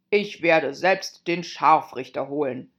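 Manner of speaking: a keen king volunteering; eager king. A narrator's reading. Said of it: "sagte der König eifrig".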